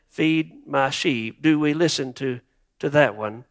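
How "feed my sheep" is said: gentle. Retold or imitated. Jesus gently commanding.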